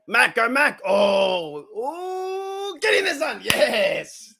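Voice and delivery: high-pitched urging, rising to a squeal; high, strained fan cheer ending in a laughing yes; excited cheering. Real, not acted. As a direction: cheer the runner into the end zone. Cheering a player to score.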